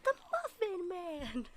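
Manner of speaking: quiet amused echo; soft replay. Acted. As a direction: say it back hushed. Quiet replay of shouted line.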